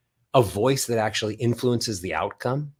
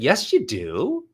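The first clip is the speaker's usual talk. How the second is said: rising rebuttal; 4 semitones higher, slower than usual. Shown as a demonstration. Playful rebuttal sung upward.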